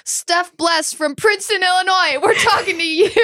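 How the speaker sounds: high, bubbly shout-out; excited shout-out. Real, not acted. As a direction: call her out with glee. Shout-out to a listener.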